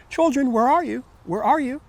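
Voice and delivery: put-on loud, high calling out for the children; shouting. A narrator's reading. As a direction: shout across the farm for the missing kids. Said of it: "And he shouted".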